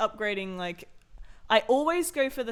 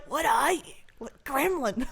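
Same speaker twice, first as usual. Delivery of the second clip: incredulous; 6 semitones higher, slower than usual. Retold or imitated. Reacting to the child character.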